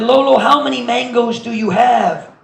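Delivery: a small sapling gasping up at his grandpa; excited little tree. Acted.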